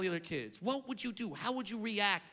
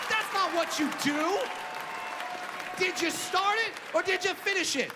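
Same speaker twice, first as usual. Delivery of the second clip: angry rant; 5 semitones higher than usual. Real, not acted. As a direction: yell it at the coddling parents. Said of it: "comic rant climax".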